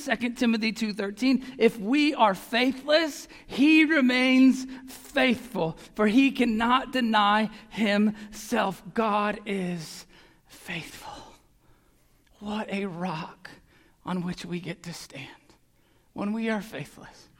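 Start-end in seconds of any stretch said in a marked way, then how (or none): 1.6-8.8 fervent reading. Real, not acted. Climactic scripture reading. 8.9-17.3 soft whispered reverence; whispered awe. Real, not acted. Hushed close after reading.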